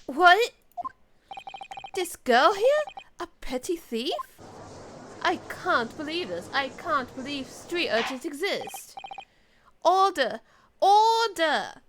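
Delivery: judge's startled outburst, rising to loud cries; outraged judge. Acted. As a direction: act a scandalised judge calling for order. Voices the shocked judge.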